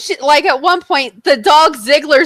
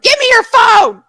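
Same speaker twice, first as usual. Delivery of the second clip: higher, louder snapping demand; demanding shout; 9 semitones higher, 4 dB louder than usual. Retold or imitated. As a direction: bark the order, grabbing the phone. Grabbing the phone in frustration.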